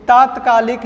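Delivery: तात्कालिक with a long taa at the start; correct pronunciation. Shown as a demonstration. Teacher to students, giving the correct form. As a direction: stretch the first taa of तात्कालिक. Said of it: "तात्कालिक होता है".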